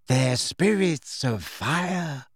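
slow, lightly voiced eccentric girl; dreamy believer. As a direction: explain it slowly, in wonder.

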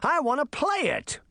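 high-pitched eager cry; boy's shout. A narrator's reading. Puck ready with another boulder, eagerly shouting. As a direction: shout it high without much volume. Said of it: "he shouted".

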